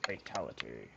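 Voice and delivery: deep, booming game announcer. Retold or imitated. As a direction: call it like a fighting game announcer. Imitating Mortal Kombat announcer.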